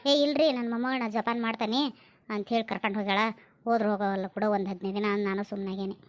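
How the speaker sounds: lightly voiced older relative, low pitch; mother recounting family news. Mother explains where the elder girl went, low-voiced role. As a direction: recount it low, settling down at the end.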